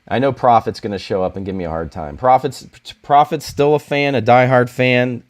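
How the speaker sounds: ordinary talk, nothing marked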